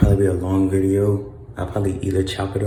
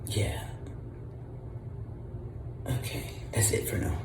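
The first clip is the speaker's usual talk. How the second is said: whispering; 12 dB quieter than usual. Real, not acted. Signing off quietly in the hospital.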